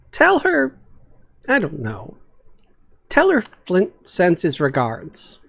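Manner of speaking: gruff Flint. Acted. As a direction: praise the kid who saved him. Flint speaks to Yara.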